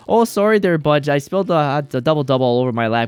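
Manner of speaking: imitating a polite Canadian accent; mock Canadian. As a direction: put on a chummy Canadian accent. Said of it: "in that old Canada lander, eh".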